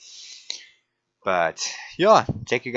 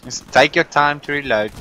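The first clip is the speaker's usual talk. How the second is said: sarcastic; 7 semitones higher, 7 dB louder than usual. Real, not acted. Teammate slow to reload.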